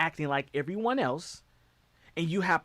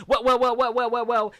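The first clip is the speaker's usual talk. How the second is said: higher and louder, gloating; mocking well well; 6 semitones higher, 7 dB louder than usual. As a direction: savor each well like a smug villain. Mock gloating repetition.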